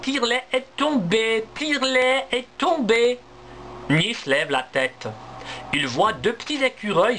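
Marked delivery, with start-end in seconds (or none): 0.0-3.2 high, urgent squirrel cries; frightened squirrels. Acted. Little squirrels cry down to Niels, high and urgent. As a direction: squeak out the alarm.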